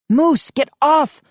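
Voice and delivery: high loud pleading cry; wailed. A narrator's reading. Rising desperate yell. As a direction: Joe begs Moose off the table, loud wail. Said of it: "I wailed".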